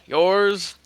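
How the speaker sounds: put-on high, playful girlish reply. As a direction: answer coyly like a smitten girl. Christine answers the man.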